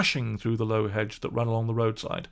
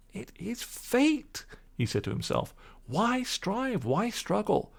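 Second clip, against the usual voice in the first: high, slow, softer fatalistic murmur; Toad brooding; 9 semitones higher, 3 dB quieter, slower than usual. Acted. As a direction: give in to temptation dreamily. Toad to himself.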